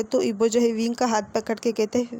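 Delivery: plain reading voice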